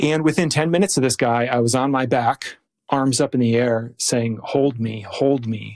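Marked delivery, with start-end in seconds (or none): 4.4-5.8 put-on bawling, crying, with cracking voice. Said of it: "bawling like a two-year-old with my voice just cracking".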